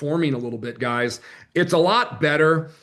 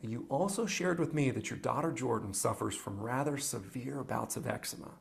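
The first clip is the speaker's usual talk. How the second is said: recorded clip; 3 semitones lower, 11 dB quieter than usual. Acted. Played role play video.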